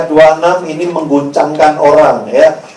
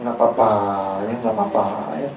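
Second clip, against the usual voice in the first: low, soft mock reassurance; indulgent, cooing consolation; soothing comfort; 10 semitones lower, 9 dB quieter, faster than usual. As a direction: hush their worries away gently. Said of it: "dihibur, ya, dipuk-puk".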